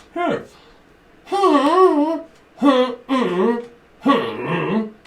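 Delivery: high, loud mock-accent hellos; Polish shopper impression. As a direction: call out hello like a shopper at the till. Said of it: "they come in and they go".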